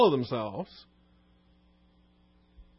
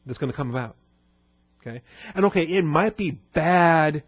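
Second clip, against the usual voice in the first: mock self-justification; 2 semitones higher than usual. Voicing Caiaphas's self-justifying scheme.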